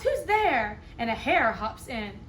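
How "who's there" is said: higher, louder timid little mouse; mouse cries out. Acted. Mouse calls into the dark den, high and startled. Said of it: "Mouse cries".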